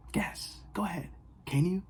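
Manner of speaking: a voiceless, teasing whisper. Acted. Vlogger dares her viewers in a teasing whisper.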